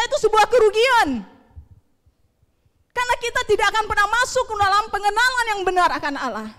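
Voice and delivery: high, loud, insistent preaching; forceful preaching. Real, not acted. Preacher warning the congregation about stubbornness serving the flesh, forceful.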